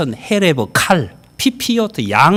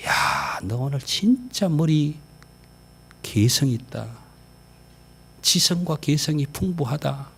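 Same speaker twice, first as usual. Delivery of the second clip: gentle compliment; 5 dB quieter, slower than usual. Shown as a demonstration. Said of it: "그럼 듣는 사람은 얼마나 좋아요".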